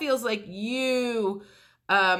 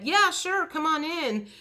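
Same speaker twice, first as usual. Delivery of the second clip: easy yes; 7 semitones higher than usual. Retold or imitated. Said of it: "the person that you approached said".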